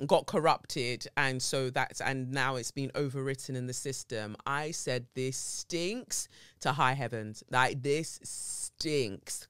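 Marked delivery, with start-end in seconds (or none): 5.1-9.5 this stinks, slow and scornful; slowly, in disgust; slow disgusted drawl. Retold or imitated. Outraged at police.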